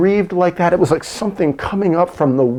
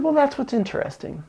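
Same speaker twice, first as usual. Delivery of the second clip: quoted Marine; 10 semitones higher, 6 dB quieter than usual. Retold or imitated. Quoting the Marine.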